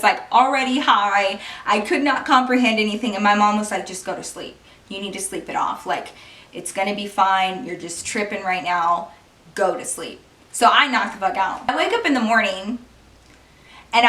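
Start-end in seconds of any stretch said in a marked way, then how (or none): 3.8-10.2 much softer, lower and reassuring; soothing mom. Retold or imitated. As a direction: mom calming her sick daughter in bed. Mom soothing sick daughter.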